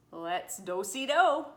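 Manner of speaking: loud, drawn-out rallying cry; rousing agreement. A narrator's reading. Missus Bell agrees to try the word cure, rousing. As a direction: stretch it out with gusto.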